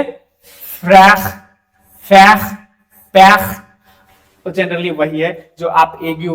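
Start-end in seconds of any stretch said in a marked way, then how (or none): 0.0-3.6 फ्रैख, फैख, पैख with a throaty ख, loud and clear; French examples. Shown as a demonstration. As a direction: stress the ए and the guttural ख. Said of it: "जैसे".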